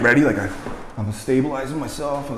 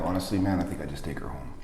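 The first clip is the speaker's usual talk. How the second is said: much softer, low confidential murmur; hushed voice; 6 semitones lower, 11 dB quieter, faster than usual. Retold or imitated. Paramedic quietly advising the husband away from the crowd, hushed. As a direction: keep it secret from the crowd. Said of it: "in a total hush voice".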